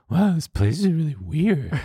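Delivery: high, airy put-on voice of a bored date; imitating his date's voice. Guy imitating his dinner date at a Mexican restaurant, high mocking voice. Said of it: "Not only is this exactly how she sounds".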